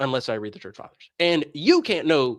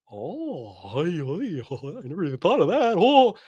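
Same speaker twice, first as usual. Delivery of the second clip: sheepish laugh; slower than usual. Pretend. Priest caught out, laughing sheepishly.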